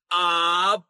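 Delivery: APOSTLE sounded out with long gaps between syllables; slow teaching demo. Shown as a demonstration. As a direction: coax them through APOSTLE piece by piece. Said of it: "Come on, say it".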